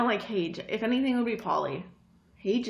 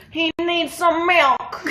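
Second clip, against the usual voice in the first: high, loud, drawn-out cry; hammed-up Vine quote; 7 semitones higher, 6 dB louder, slower than usual. Quoting a favorite Vine to co-host, loud hammed-up cry. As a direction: call it out slowly with comic force.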